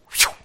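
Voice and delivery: imitated whoosh of a speeding car; short rush of air for a car passing. Officer's car racing under an underpass, imitated whoosh. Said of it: "like this".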